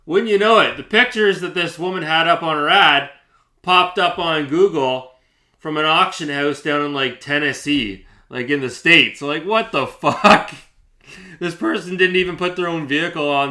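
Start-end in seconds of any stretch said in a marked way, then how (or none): 0.1-10.5 higher and louder, amazed and indignant; worked-up disbelief. Real, not acted. Telling viewers about the fake photos, worked-up disbelief. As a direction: let the outrage spill out.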